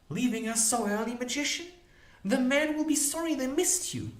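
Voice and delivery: high-pitched teasing woman's voice; mocking Molly Grew. Molly catching the magician leaving early, high and mocking.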